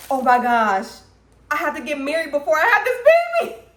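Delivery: high, fast panicked rush. Retold or imitated. Dreamer panicking over a baby out of wedlock, fast and high. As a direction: blurt it out in a panic, racing. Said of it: "I'm like".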